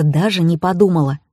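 ordinary delivery, nothing marked

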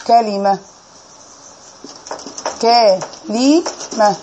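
كلمة drawn out very slowly as kalima, open ka, kasra under the lam; كلمة spelled out syllable by syllable, ka-li-ma; Hijazi kalima. Shown as a demonstration. Teacher showing the class how the Hijaz say it: كلمة, stretched out slowly. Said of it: "بتتنطق إزاي؟".

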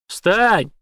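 громко, выше, коротко; рявкни приказ. A narrator's reading. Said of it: "приказал Шекет". (громкий приказ встать)

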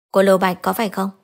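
a hint of an old man on the phone; elderly voice. A narrator's reading. Father phoning his son's girlfriend, lightly aged voice. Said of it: "Một giọng già nua cất lên".

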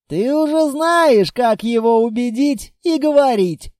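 mocking his friend with a laugh; a touch of laughter; chuckling. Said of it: "хохотнул Литвин".

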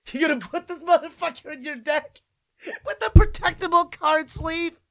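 high, laughing disbelief; giggling ridicule of the card sleeve; laughing mockery. Real, not acted. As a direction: crack up while asking. Mocks card use, cracking up.

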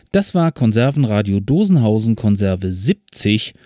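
upbeat radio sign-off; radio host outro. Acted.

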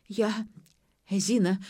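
ordinary delivery, nothing marked

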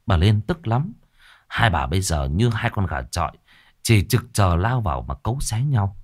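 plain reading voice

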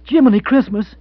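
high, loud exclamation; loud exasperated exclamation. Acted. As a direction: throw up her hands at his nonsense.

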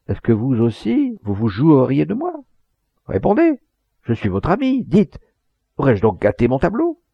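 acted dread of having failed; anxious pleading. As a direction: beg for the truth, voice climbing. Anxious old man begs for truth.

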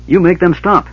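high, loud insistent order; demanding. A narrator's reading. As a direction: stamp your foot and demand it. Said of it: "she demanded".

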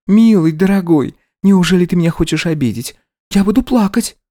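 wheedling bride threatening to cry; coy pouting bride. Acted. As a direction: fake tears to get her way. Wife plays hurt.

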